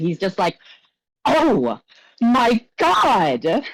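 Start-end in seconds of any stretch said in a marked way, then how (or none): 1.2-3.6 sudden, high, loud shriek. Telling a story, the speaker acts out a man's outburst over the music: retelling a shriek. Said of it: "he shrieks".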